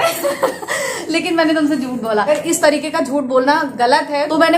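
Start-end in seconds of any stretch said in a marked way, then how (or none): 0.0-2.2 high squeaky laugh breaking into the words; laughing confession. Real, not acted. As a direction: giggle through the admission of lying. Confessing the lie to husband.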